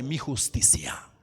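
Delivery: breathy whisper, falling away; soft whispered close of the verse. Acted. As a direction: let the verse end in a hushed whisper. Whispered end of scripture verse.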